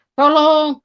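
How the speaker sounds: high, loud, drawn-out call; retold cry for help. Injured man calling out between rattling breaths, retold cry. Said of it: "lalu saya berteriak".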